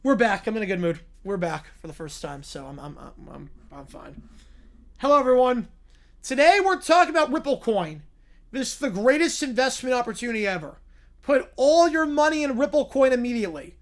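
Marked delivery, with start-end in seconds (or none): 5.0-13.7 excited fake influencer sales voice; hyped streamer pitch. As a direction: hype up the crypto like a scam ad. Fake streamer bot hyping crypto.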